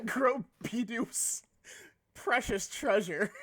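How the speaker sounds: drawn-out, very slow "precious treasure" with a laugh; mock slow. Mocking Bidoof's treasure for chat, very slow and teasing.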